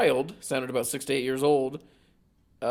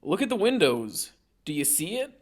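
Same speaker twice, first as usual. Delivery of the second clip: put-on Boston accent; 4 semitones higher than usual. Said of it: "recognizable Bostonian accent".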